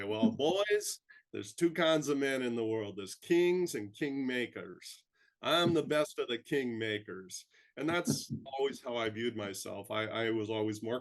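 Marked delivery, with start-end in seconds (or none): 0.0-7.4 a lightly voiced Texas drawl, barely shifted from his own; attempted Texas accent. Quoting the Texas USDA official's line to the boys, light Texas accent. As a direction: try on a Texas accent without much conviction. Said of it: "I can't do a great accent, I'll try anyway".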